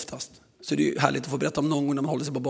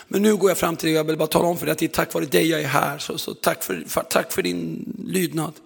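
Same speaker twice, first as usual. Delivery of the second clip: emotional thanks; 4 dB louder than usual. Retold or imitated. Man thanks pastor, voiced in story.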